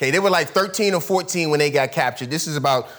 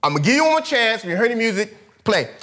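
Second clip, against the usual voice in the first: higher, fast, fed-up king; exasperated king; 4 semitones higher than usual. Retold or imitated. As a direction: snap like a furious king. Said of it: "He was at the point saying".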